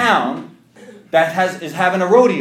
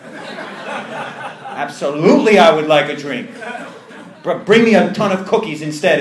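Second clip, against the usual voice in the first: laughing reply; 5 dB louder than usual. Retold or imitated. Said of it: "is what I said".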